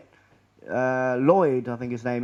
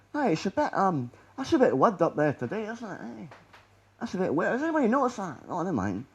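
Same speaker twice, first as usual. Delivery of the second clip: mock casual film crew; 2 semitones higher, 4 dB quieter than usual. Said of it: "I'd say to the lads".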